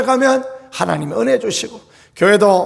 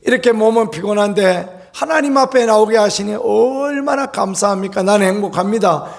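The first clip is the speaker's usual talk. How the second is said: humble thankful confession; grateful prayer. Shown as a demonstration. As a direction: pray it as if walking tired to dawn service. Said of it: "믿음의 고백을 한번 드려보십시오".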